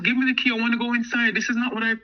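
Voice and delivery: high, insistent retold demand; acted upset protest. Woman refusing to be caught in danger, acted upset protest.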